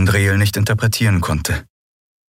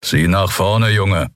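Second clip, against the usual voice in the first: plain reading voice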